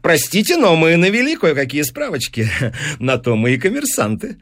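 lightly voiced knowing deal-maker, small chuckle; sly businessman. Businessman revealing he checked the professor's finances, sly. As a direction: admit the snooping cheerfully.

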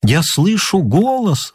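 eerie blind man's gentle chant; soft-voiced blind stranger. A narrator's reading. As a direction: draw the words out softly, feeling for the listener. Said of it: "с таким мягким голосом".

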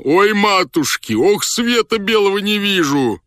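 very high, drawn-out wail; high-pitched lament of a suffering general; wailing in pain. A narrator's reading. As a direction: howl theatrically in agony. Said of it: "вопил он".

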